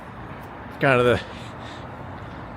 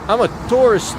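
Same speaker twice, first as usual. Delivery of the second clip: hammed-up Scottish accent, pitched high and louder; Scottish accent attempt; 9 semitones higher, 5 dB louder than usual. Streamer joking about being a tourist, attempted Scottish accent. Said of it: "I can't do the Scottish accent".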